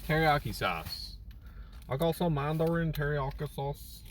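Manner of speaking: high, gushing food excitement; excited. Real, not acted. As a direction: squeal it with delight. Excited about food haul.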